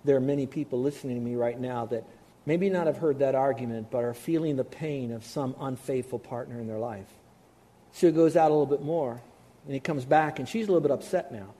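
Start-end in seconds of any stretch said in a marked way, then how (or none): 0.0-7.1 softer, gentle pastoral tone; tender. Real, not acted. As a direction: speak gently to the hurting listeners. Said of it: "I want to say this very tenderly".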